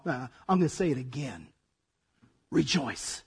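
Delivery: soft, low and steady; calm insistence. Retold or imitated. Paul gently answering the complaining listener, softly. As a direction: quietly insist without budging.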